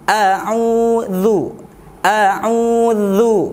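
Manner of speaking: a'udzu with dzal, tongue tip between teeth; slow careful a'udzu, dzal like th; a'udzu demo. Shown as a demonstration. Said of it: "huruf dzal berharokat dhammah".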